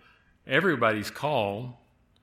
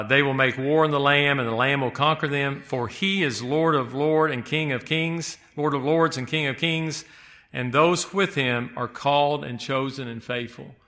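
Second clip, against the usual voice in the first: scripture reading. Acted. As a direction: proclaim the verse to the congregation. Reads Revelation 17:14 aloud.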